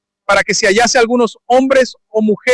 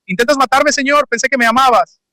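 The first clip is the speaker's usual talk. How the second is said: pleading Ananías; 4 semitones higher than usual. Acted.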